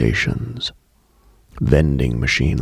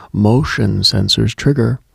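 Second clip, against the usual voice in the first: plain reading voice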